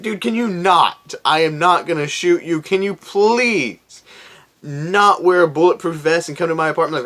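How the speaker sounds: high exasperated please. Retold or imitated. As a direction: beg him to stop, fed up. Annoyed plea to officer, retold.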